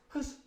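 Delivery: short sharp gasp; knocked-out breath. Acted. Man struck in the back, acted gasp. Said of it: "He gave a sort of gasp".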